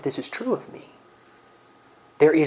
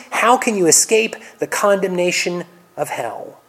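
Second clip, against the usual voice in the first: berating; 4 semitones higher than usual. Acted. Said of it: "berate the Pharisees".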